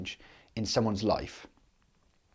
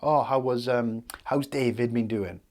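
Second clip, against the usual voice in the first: lightly hammed-up small talk, pitched up; mock chatty doctor; 3 semitones higher than usual. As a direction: imitate a doctor dawdling over friendly chit-chat. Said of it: "They don't sit there like".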